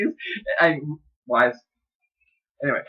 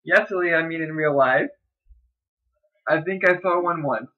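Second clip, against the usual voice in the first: put-on girl's voice; 3 semitones higher than usual. Shown as a demonstration. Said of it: "I'm gonna do this in a girl's voice".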